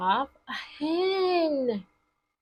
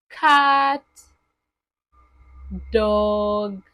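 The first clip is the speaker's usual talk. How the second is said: louder, emphatic naming of each card; loud flashcard call; 4 semitones lower, 6 dB louder than usual. Shown as a demonstration. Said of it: "showing flashcards to children".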